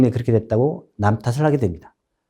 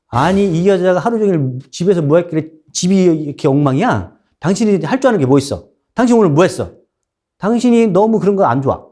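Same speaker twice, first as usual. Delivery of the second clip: irritated husband; 4 semitones higher than usual. Acted. Husband blaming his wife for the messy house, irritated. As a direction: scold her for the messy house.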